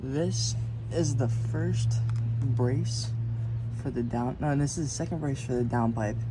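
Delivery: strained, talking while lying under a car. Real, not acted. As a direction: speak flat on your back under a car. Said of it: "I'm under the car right now".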